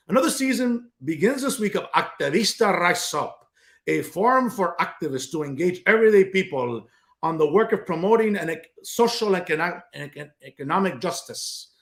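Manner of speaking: mocking put-on voice of an activist host reading her blurb; Patty Campos Medina imitation. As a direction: parody her stumbling, self-important read. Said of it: "I'm doing my best Patty Campos Medina imitation".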